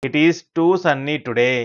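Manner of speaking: slow, joined-up teacher's reading; model sentence. Shown as a demonstration. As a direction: say it slowly in one connected run.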